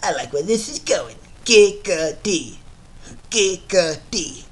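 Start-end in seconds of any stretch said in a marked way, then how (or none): 1.4-2.6 slow drawn-out Giggity; Giggity catchphrase. Retold or imitated. Quagmire's catchphrase as the impression: slow Giggity. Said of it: "my Quagmire voice impression". 3.3-4.4 Giggity catchphrase. Retold or imitated. Repeating the catchphrase in the impression: slow Giggity. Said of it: "my Quagmire voice impression".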